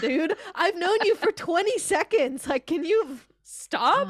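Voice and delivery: high, loud mock exasperation; hammed-up indignant protest; exasperated retort. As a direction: plead for them to quit, drawn out at the end. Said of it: "And I was like".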